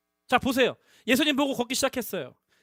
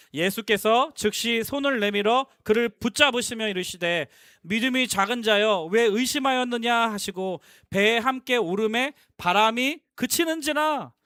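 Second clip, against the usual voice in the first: slow, measured reading aloud; loud scripture reading; slower than usual. Real, not acted. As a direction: lead the congregation reading in unison. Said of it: "같이 큰 목소리 읽어보겠습니다". (회중과 함께 또박또박 성경 봉독)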